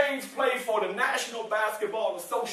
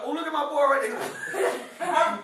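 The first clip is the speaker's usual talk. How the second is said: laughing; 3 semitones higher, slower than usual. Real, not acted. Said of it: "laughing at the boy's reaction".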